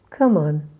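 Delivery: "on" stressed and lengthened, falling; loud demonstration, put the weight on "on"; second-word stress. Shown as a demonstration. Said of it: "a little bit louder and just a little bit longer".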